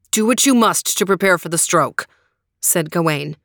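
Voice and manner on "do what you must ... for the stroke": put-on young knight voice. Gawain answers.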